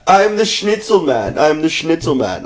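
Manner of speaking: imitating the schnitzel man. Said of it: "He's like".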